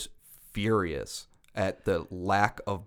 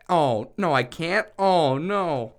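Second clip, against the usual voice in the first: louder, higher mock panic; 8 semitones higher, 8 dB louder, much slower than usual. Realizing she can't delete her Facebook, mock panic. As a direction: pretend alarm at losing something.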